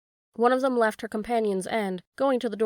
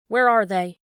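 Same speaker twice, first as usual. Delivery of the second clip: calling out; 8 dB louder than usual. Acted. Farmer calling from window.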